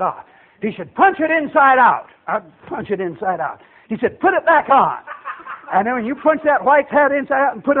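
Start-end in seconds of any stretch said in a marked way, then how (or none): 0.9-2.1 lightly acted order, pitch raised; drill sergeant command. Sergeant orders recruit to turn hat, lightly barked command. 4.2-5.0 lightly acted order, pitch raised; drill sergeant command. Sergeant orders recruit to turn hat, lightly barked command.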